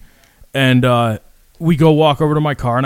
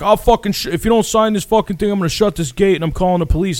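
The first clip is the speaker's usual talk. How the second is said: mock angry threat; 6 semitones higher than usual. Retold quarrel, dude threatening police.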